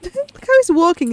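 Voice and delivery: laughing while pointing it out; amused, giggling through it; chuckling at the little guy. Real, not acted. Laughing at the character.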